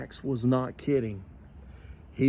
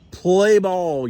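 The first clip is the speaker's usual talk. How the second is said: louder umpire's play ball call; yelled; 4 semitones higher, 6 dB louder than usual. A narrator's reading. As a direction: bellow the start of play. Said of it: "yelled old Casey".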